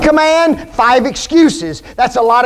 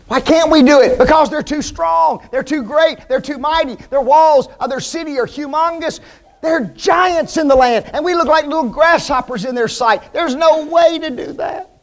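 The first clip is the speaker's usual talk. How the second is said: mocking whiny excuses; 4 semitones higher than usual.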